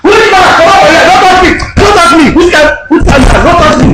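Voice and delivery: high, loud, outraged shouts; real angry shouting. Real, not acted. Man finds out he is pranked.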